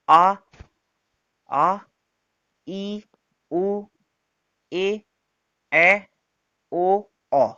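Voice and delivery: each long vowel आ ई ऊ drawn out and held; long vowel list. Shown as a demonstration. Teacher lists the long vowels for students, drawn out. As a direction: call out the long vowels one at a time. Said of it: "ये स्वर कौन कौन से होते हैं?".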